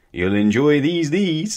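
high, loud, rising cheer; smiling. A narrator's reading. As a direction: say it with a big smile. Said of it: "smiled Mister Doublechop".

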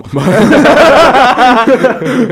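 loud laugh. Real, not acted. Laughs at own joke.

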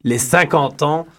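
mock German accent, slow; lightly done German accent. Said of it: "que je dis avec un accent allemand".

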